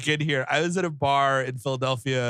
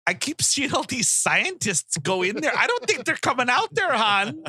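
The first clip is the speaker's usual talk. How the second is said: higher, singsong neighbour gossip; nosy neighbour; 6 semitones higher than usual. Acted. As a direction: gossip to your spouse about the strange mansion.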